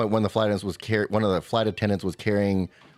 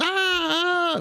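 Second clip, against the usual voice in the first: put-on child's wail. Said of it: "like, in tears".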